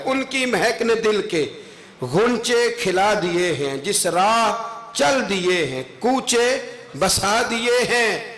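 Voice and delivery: slow, drawn-out poetry declamation; devotional verse recitation. Acted. Preacher recites praise verse to the congregation, slow declamation. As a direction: stretch each phrase of the couplet.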